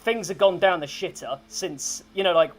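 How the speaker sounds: lightly voiced blunt soldier, a bit loud; gruff annoyed commander. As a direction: brush it off, then complain like a fed-up veteran. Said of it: "Barbara looks over and goes".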